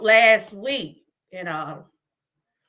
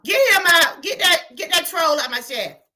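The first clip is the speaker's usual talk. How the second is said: raised, bossy order; loud command; 3 semitones higher, 3 dB louder than usual. Real, not acted. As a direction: kick him out, loud. Ordering troll out of chat.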